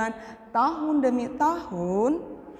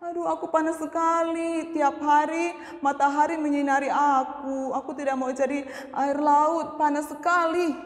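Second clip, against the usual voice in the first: complaining; 3 semitones higher than usual. Acted.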